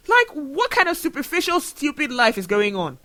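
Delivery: real anger. Real, not acted. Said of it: "I'm so, so angry".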